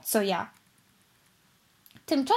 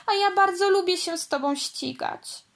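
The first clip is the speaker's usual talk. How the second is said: voice breaking; 8 semitones higher than usual. Acted. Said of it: "dodała łamiącym się głosem".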